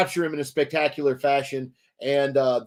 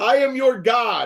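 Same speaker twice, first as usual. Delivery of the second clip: slow, lofty, grand declaiming delivery, pitched up; 8 semitones higher than usual. Retelling Loki's speech from a rock, imitating Loki proclaiming. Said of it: "to be like".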